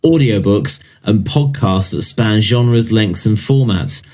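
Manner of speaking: measured press-release reading voice; marketing read. Acted. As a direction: read the product announcement like marketing copy. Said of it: "I'll do it in a marketing style".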